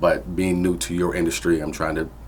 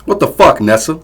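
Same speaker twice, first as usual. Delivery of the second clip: much higher, loud angry yell; furious shout; 11 semitones higher, 12 dB louder than usual. Acted. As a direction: explode at her in rage. Drunk father erupting.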